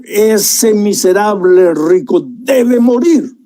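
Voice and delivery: a mild slow furious verdict, the king enraged; slow, weighty, understated angry sentence; the king condemns the rich man with restrained fury; king's anger. Acted. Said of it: "Y el rey se encolerizó".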